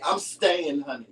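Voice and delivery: mild mock diva declaration; a diva singer. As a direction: sing it out like a defiant diva. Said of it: "I'm like a diva singer".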